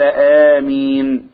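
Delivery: آمين with the final ي held long; recited amen, long final vowel; drawn-out amen. Shown as a demonstration. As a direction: stretch 'آمين' slowly at the end. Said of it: "مد بها صوته".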